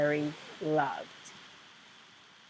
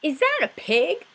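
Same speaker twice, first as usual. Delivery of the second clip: disapproving neighbour; 10 semitones higher, 5 dB louder than usual. Acted. Neighbour voiced high.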